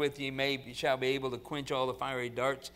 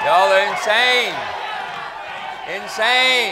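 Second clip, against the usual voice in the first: exclaiming; 6 semitones higher, 12 dB louder, slower than usual. Real, not acted. Preacher exclaims at the crowd.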